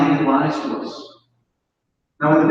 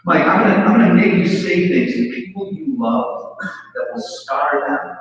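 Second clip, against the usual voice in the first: voice of alcohol; 2 semitones higher than usual. Retold or imitated. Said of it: "Never said that to me".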